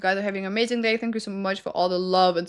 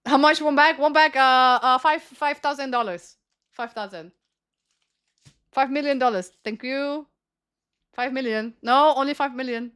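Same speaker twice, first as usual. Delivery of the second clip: put-on Moroccan accent. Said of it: "I try to make a Moroccan accent".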